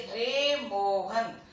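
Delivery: रे मोहन with रे stretched long, as a far-off call; drawn-out pluta call. Shown as a demonstration. Teacher calling out रे Mohan with रे held long. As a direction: hold the रे of रे Mohan for three beats. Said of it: "जैसे".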